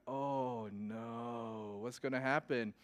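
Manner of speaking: low, soft "oh no" of dread; mock dread, voice dropped low and quiet; hushed dismay. Driver spotting police lights late at night, hushed dismay.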